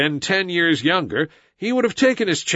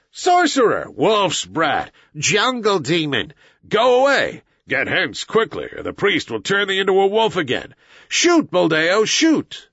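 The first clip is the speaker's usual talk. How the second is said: high, raised cries of an accusing crowd; angry mob shouting; 6 semitones higher than usual. A narrator's reading. Villagers drive Mowgli from the gate, shouting. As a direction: hurl each insult, pitch leaping up. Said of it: "and the villagers shouted".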